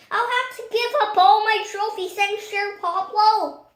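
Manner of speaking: high, loud fretful wail; deputy yelling his worries at the sheriff; worried yell. A narrator's reading. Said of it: "yelled his deputy".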